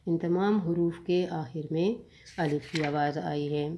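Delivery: ordinary talk, nothing marked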